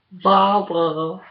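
loud, high call for Barbara, drawn out; calling for help. Real, not acted.

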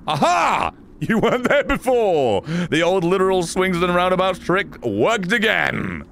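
crowing in triumph, drawing out the last words; cocky, playful crow of victory; triumphant gloating. Real, not acted. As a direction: gloat like your trick just landed. Gloating after a trick works.

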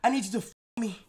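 mock Jamaican patois woman begging Kai; mock Jamaican patois girl. Acting a girl's request in patois.

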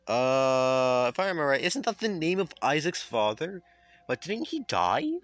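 rising in disbelief; shocked realisation; surprised. Real, not acted. Shocked at twist.

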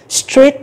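street slowly, starting on the S-T-R cluster; careful model word. Shown as a demonstration. Teacher slowly modelling street for students. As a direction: slowly sound out street's three initial consonants. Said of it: "ba phụ âm là âm S".

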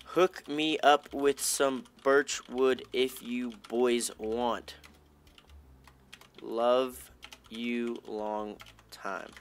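slow, put-on cooing plea; drawn-out mock come-on to the fans; mock sweet-talk voice. Begging chat viewers for birchwood in a slow, put-on cooing voice.

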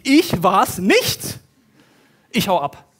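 slow, loud ich war's nicht; desperate outburst. Acted. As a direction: Josef at his limit, blurting it out. Voicing desperate Josef.

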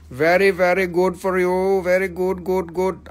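put-on voice, stressing very; mock approving voice. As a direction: pat them on the head with it.

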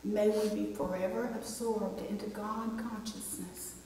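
measured, solemn prayer with even intonation; public prayer. Real, not acted. Preacher praying with the congregation, measured and reverent.

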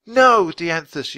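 slow, loud, high cry of no; yelling. Acted. Annie yells at the unicorn not to go, slow and loud. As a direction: shout to stop him. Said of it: "yelled Annie".

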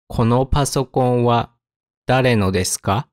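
careful phrases, clear pause after the topic. Shown as a demonstration. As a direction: split it up for learners. Example read slowly, then at speed.

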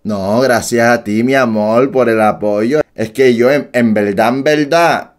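low-voiced attempt at a Puerto Rican accent. Shown as a demonstration. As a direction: rehearse sweet-talk in Boricua accent. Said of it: "No me está saliendo el acento boricua".

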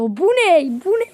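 loud stunned question; shocked cry at the reward; astonished. Real, not acted. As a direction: gasp it out in disbelief. A rare reward appears.

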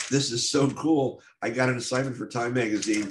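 excited inner voice. Retold or imitated. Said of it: "I would go from".

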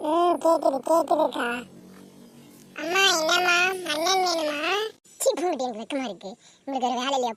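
put-on high, loud bashful girlish voice; coy shy girl. Girl teased by her sisters about a groom, shy and high. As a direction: act coy and giggly with embarrassment.

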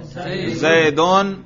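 very slow, careful जैदुन with -un ending; raf ending demo. Shown as a demonstration. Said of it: "करके दिखाओ".

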